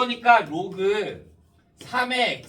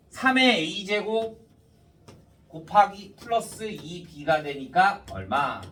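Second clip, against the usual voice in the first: slurred speech after a tooth extraction; wisdom tooth just pulled. Real, not acted. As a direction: talk around a sore, numb mouth. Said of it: "사랑니를 뽑아서 발음이 좀 많이 세".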